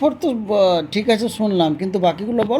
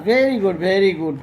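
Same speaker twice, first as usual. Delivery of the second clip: slow praise; 2 semitones lower, much slower than usual. Real, not acted. Praising child's district answer.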